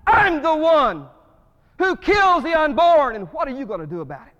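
loud, high, defiant challenge to God; defiant shout at God. Retold or imitated. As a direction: throw the challenge up at heaven. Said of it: "in America that we say".

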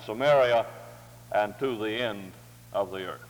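measured, solemn Bible reading; formal scripture reading. Real, not acted. Reading Acts to the morning congregation, measured formal delivery. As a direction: read the scripture out clearly, phrase by phrase.

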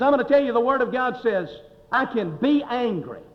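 retold angry defiance. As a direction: imitate a man defending his anger. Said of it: "he just blew up".

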